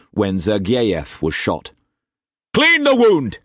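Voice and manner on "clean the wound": high, loud urgent voice; urgent self-instruction. A narrator's reading. Cullum talking himself through first aid, urgent. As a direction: steel yourself aloud. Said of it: "he said aloud".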